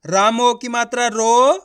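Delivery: slow, syllable-by-syllable reading of "राम ओ की मात्रा रो"; teacher drawing out each sound of "राम ओ की मात्रा रो"; slow spelling out. Shown as a demonstration. Teacher showing students how to read, slow spelled-out syllables. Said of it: "चलिए देखिए".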